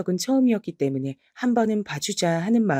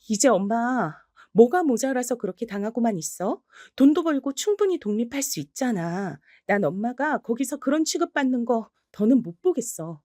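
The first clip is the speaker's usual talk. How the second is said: higher, urgent exasperated plea; frustrated pleading daughter; 5 semitones higher than usual. Acted. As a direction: push mom to finally leave.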